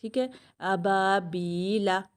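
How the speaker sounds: अबाबीला read slowly with its long vowels drawn out; drawn-out Quranic recitation; slow chanting read of अबाबीला. Shown as a demonstration. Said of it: "अबा में अलीफ मद्दा है".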